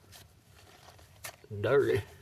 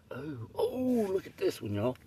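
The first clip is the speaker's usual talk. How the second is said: excited whisper; 9 semitones higher than usual. Real, not acted. Spots a new gem.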